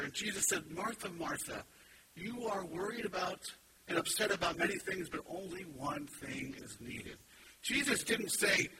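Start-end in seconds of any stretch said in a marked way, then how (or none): 0.7-7.2 softer answer. Retold or imitated. Jesus answering Martha's complaint, softly and gently. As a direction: ease her worry with a soft voice. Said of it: "had a softer answer".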